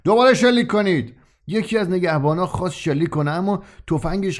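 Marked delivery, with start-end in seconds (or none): 0.0-1.1 loud, high furious command; angry shout. A narrator's reading. Enraged prison chief shouts at guards to fire again. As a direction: bark it out in a rage. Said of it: "رئیس خشمگین داد زد".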